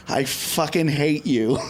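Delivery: slow, deliberate mock contempt; imitating slow, pointed disdain; retold hateful woman. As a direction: spell out the hatred, word by word. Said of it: "points right in my face and goes".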